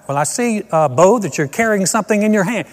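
mock on-the-scene news report; a hint of a serious TV correspondent; TV news reporter. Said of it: "some guy standing there going".

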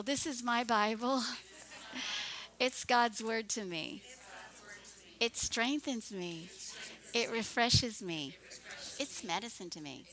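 measured phrases with pauses for echoing; congregational declaration. Real, not acted. Pastor leading the church in a Bible confession, declaring.

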